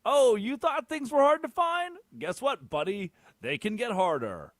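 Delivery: loud, high, drawn-out sarcasm; mock enthusiasm. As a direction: sell the bad news like a gleeful hype man. Sarcastic rant about streaming games.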